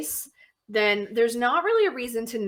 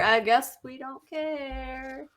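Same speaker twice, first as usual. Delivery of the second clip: mock indifference; 3 semitones higher, much slower than usual. Acting out an indifferent reaction.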